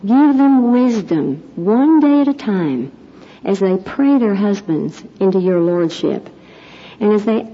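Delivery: earnest, steady closing prayer. Acted. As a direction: pray it over the congregation.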